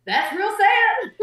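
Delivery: slow, high mock sympathy; high, drawn-out pity. The comedy club crowd pitying her joke, high and slow. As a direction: stretch it out with pity. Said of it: "And everyone's like".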